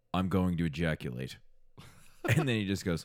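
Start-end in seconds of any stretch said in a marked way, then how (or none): 0.1-1.3 deadpan, blank, matter-of-fact delivery. Retelling what a listener's husband says during sex: imitating the husband. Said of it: "he just kinda goes like this".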